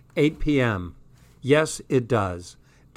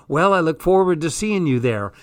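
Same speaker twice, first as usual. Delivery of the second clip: excited; 4 semitones higher, 4 dB louder, faster than usual. Acted. Jazz repeating Tom's line.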